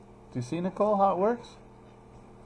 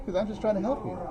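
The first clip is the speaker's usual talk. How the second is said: mock innocence; 7 semitones higher, faster than usual. Real, not acted. Teacher stays in a high playful voice while calling on Nicole. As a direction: keep the squeaky innocent act going.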